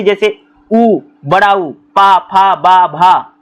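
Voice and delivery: पा, फा, बा, भा said with the lips; teacher sounding out letters; lip sounds demo. Shown as a demonstration. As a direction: enunciate each labial clearly. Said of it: "ये हमारे होंठ से".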